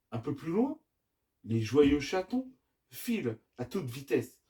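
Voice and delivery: put-on measured children's storytelling with lively phrasing; story narration. A narrator's reading. Dad reading the adventure to his children, story narration. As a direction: tell the tale, pausing between phrases.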